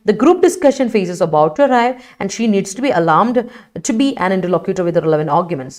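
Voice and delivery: slow, careful reading of an example sentence. Shown as a demonstration. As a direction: read the sentence out slowly for the class. (വാക്യം പതുക്കെ വായിക്കുന്നു)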